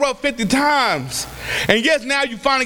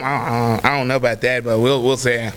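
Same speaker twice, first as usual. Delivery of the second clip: mock know-it-all; 12 semitones lower than usual.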